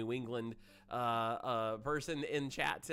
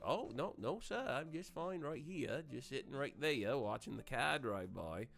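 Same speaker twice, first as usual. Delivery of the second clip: put-on old Maine accent. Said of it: "And they're like".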